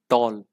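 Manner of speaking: टॉल said as a single short beat; one-beat demo. Shown as a demonstration. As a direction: show टॉल takes one mouth movement. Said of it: "टॉल बोलने के लिए कितनी बार मुंह हिलाना पड़ा है".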